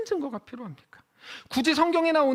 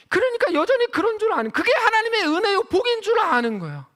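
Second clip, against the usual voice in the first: high and loud, scornful emphasis; indignant; 9 semitones higher, 5 dB louder than usual. Real, not acted. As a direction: rebuke the mistaken belief. Preacher mocks mistaken belief. (높고 크게 꾸짖듯)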